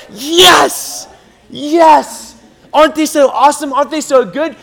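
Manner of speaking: high, delighted exclaiming; excited proud cheering. Acted. God watching your life take place, excited and proud. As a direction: gush like a proud parent.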